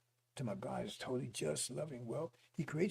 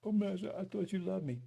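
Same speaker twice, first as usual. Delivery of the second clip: mock betrayed plea; 3 semitones higher than usual. Victim heading to the oven.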